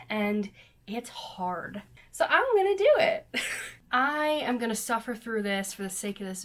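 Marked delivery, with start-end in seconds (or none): 0.1-1.8 whispering. Real, not acted. Aside about workout. 2.1-3.3 hyped. Real, not acted. Hyped decision.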